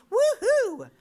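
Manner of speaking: high, loud gleeful whoop; acted-out burst of excitement; mock celebration. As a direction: whoop as if suddenly rich. Imagined joy at coming riches.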